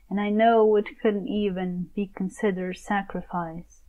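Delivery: soft, measured poetic recital; poem reading. Acted. Poet reciting verses to a lover, soft recital. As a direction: read it like a love poem.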